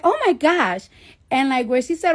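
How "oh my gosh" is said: put-on high, stretched-out gushing girl voice; Staten Island white girl. The OBGYN reacting during the sonogram, imitated as a high gushing girl. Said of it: "Staten Island white girl".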